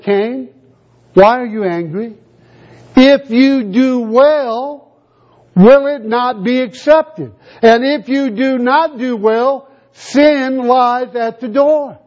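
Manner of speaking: slow, grave voice of God warning Cain; solemn voice of God. Acted. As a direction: stretch each word as a weighty divine warning.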